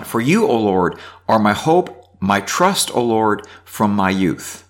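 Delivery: reading scripture aloud. Acted. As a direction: read the psalm out to the class. Reads psalm aloud.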